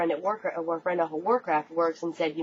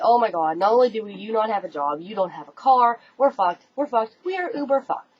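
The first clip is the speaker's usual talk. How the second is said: loud, high panicked rant; frantic, as if the world just ended; retold panic; 4 semitones higher, 4 dB louder than usual. Wife panics to husband about lost job and car, loud and frantic. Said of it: "now I'm flipping out".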